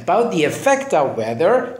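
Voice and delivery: "the" before "effect" said as "thee", slow; slowly, with "thee effect"; the before a vowel. Shown as a demonstration. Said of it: "چرا the رو گفتم the".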